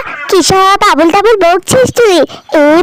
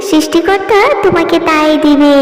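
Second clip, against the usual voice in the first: gentle fairy; 2 semitones lower than usual. Acted. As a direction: comfort her like a benevolent fairy aunt. Kind fairy comforts crying girl.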